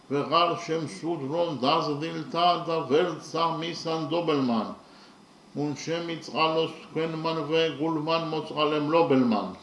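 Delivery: fast, rhythmic chant of the original verse; rapid Georgian recital. Shown as a demonstration. Teacher reciting the original Georgian stanza, fast and rhythmic. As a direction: rattle off the Georgian stanza in one breath. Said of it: "The stanza in the original language is as follows".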